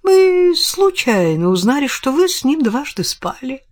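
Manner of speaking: pitched high, springing the trap; triumphant reveal. Acted. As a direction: deliver the blow with relish.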